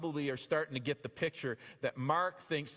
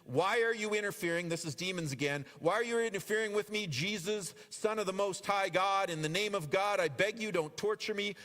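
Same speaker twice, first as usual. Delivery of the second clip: mock scream; 3 semitones higher than usual. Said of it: "with a shriek he screamed".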